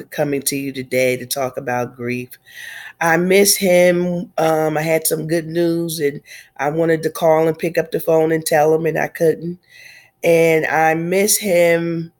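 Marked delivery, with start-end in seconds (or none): 3.0-4.3 very slow, each word weighed with grief; slow aching "I miss him". Real, not acted. Speaking to the congregation about her father, slow grieving. 10.2-12.1 very slow, each word weighed with grief; slow aching "I miss him". Real, not acted. Speaking to the congregation about her father, slow grieving.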